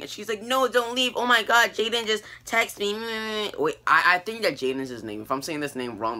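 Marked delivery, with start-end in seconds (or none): 0.4-3.5 high, rushed plea with a stretched ending; mock excited plea. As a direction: imitate a girl begging her sister to stay. Girl begs sister not to leave.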